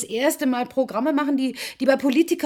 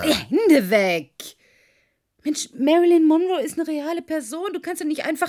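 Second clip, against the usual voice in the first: sharp rebuke; 7 semitones higher, 7 dB louder than usual. Acted. Pushes him off, objecting.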